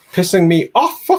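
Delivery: high, loud hammed-up complaint; mock exasperation. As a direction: blow up in mock frustration at the browser. Mock rant at Google Chrome.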